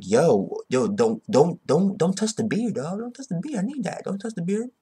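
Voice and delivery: high, soft mock plea. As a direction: beg up high and hushed. Mock plea about the beard.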